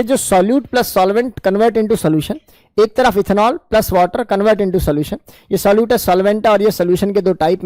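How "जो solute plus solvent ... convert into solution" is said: very slow, word by word; spaced-out classroom dictation. Shown as a demonstration. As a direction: dictate it slowly for notes. Teacher spells out equation slowly.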